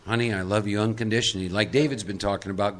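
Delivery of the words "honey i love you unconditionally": calm loving reassurance. Retold or imitated. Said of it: "who very calmly would say".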